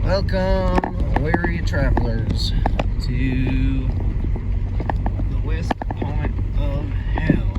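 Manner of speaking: slow, drawn-out host's greeting; theatrical welcome to weary travelers; mock-grand welcome. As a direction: play the grand host, stretching each phrase.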